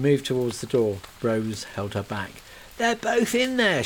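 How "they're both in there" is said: high, anguished cry; a touch of panic; mild acted scream. Kate screams about the people inside, anguished. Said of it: "she screamed".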